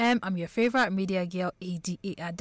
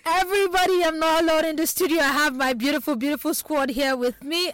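higher, louder announcement to open the show; excited reintroduction; 5 semitones higher, 3 dB louder than usual. Real, not acted. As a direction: relaunch the intro with real fanfare. Restarts her introduction with more fanfare.

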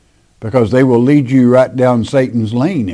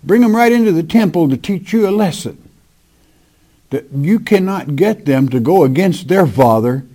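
a lightly voiced disappointed Father, higher; Father speaking; 4 semitones higher than usual. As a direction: plead as the disappointed Father, pitched up. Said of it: "He said".

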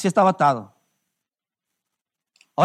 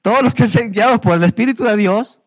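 1 proclaiming; 2 semitones higher, 5 dB louder than usual. Real, not acted. Preacher proclaims verse loudly.

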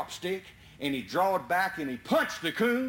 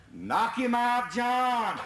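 urging shout; 6 semitones higher, much slower than usual. Retold or imitated. Urging the climber from below.

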